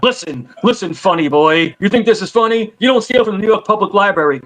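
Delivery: lightly mock tough-guy library cop; library cop role. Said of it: "remember when the guy came".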